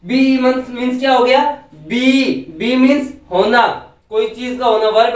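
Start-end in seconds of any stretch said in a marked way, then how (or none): 1.7-2.2 "बी" with a long, stressed ee; stretched E. Shown as a demonstration. Teacher repeats the example, long "बी". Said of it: "खींचा जा रहा है इसको".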